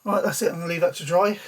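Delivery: out of breath after holding breath; breathless, catching air between words. Real, not acted. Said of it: "God, I'm out of breath".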